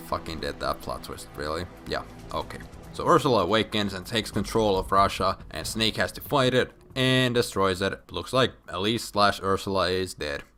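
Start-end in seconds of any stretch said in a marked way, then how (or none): none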